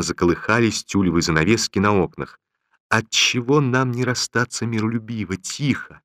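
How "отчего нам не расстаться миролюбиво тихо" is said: meek. Acted. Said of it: "кротко спросил Ромашов".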